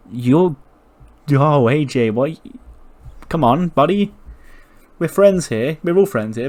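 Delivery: smooth it over, big and bright; loud placating. Retold or imitated. Kevin loudly calming AJ down, we're friends here.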